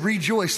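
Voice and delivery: Rejoice split as RE-joice; stress on the prefix. Retold or imitated. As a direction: say Rejoice as two parts, re and joice. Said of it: "That means you had to joyce before".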